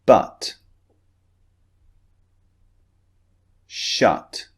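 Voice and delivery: each word clearly modelled with pauses; model words for repeating. Shown as a demonstration. Teacher modelling practice words for students to repeat. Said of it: "repeat them after me".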